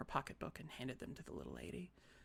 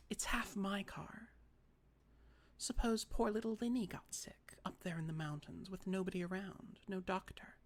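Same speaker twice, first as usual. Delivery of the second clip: put-on prim older sister; 5 semitones higher than usual. Carrie pleading her case.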